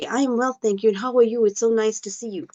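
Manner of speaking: sincere, unhurried answer; heartfelt reply. Shown as a demonstration. Student answers teacher's greeting from the heart, sincere. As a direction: answer as if you care about the person. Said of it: "It will be from your heart".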